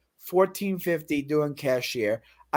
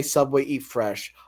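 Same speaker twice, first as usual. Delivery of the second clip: 1 slogan recital; 6 semitones lower, slower than usual. Retold or imitated. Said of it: "I'll go to Subway and I'll say".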